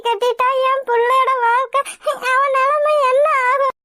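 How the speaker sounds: slow, grieving lament that breaks into crying; mother blaming herself for ruining her daughter's life; tearful lament. Acted. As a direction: mourn it slowly, tears rising at the end.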